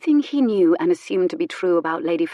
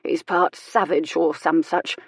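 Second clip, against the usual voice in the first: sniffy. Acted. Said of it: "she sniffed".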